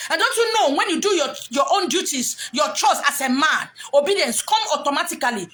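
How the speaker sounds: loud preaching shout. Real, not acted. Speaker preaching to husbands with a loud shout. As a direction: shout it at the men.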